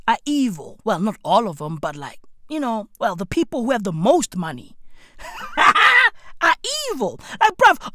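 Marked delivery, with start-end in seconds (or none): 5.6-6.1 high, loud burst of laughter; shouted laugh. Real, not acted. Comedian laughs at his own point, loud laugh. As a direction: bark out a laugh.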